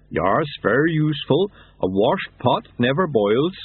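a hint of a slow, rumbling Yeti; lightly voiced Yeti. Yeti tells the monks about the sweeper, lightly voiced Yeti. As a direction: Yeti kindly explaining, voice a little altered.

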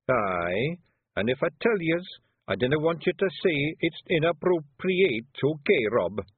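hesitant broad Scots, pleading a little; a shy Feagle asking his chief not to scold; nervous Scots Feagle. Acted. Daft Willie nervous.

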